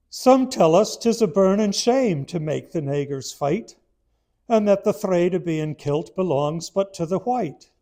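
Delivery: loud declaimed poem with only a faint hint of an Irish accent; hammed-up oratory, Irish accent barely there; Irish soldier voice. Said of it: "just pretend that this is an Irishman speaking".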